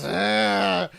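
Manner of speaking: mock aggressive wail; angry child's whine. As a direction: mimic a little girl's tantrum noise. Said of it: "then she goes".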